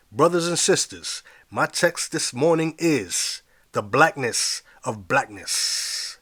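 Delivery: rising preacher call to the congregation; preacher's shout. Acted. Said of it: "I heard someone shout".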